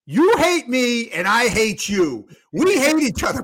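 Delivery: put-on drunk Philly fan. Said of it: "all drunk and shit".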